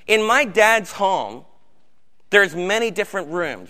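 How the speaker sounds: lightly voiced Jesus, unhurried; Jesus paraphrased. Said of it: "And Jesus responds".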